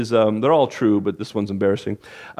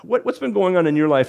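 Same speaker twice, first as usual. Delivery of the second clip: friendly ask; 5 semitones higher than usual. Shown as a demonstration. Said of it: "just say".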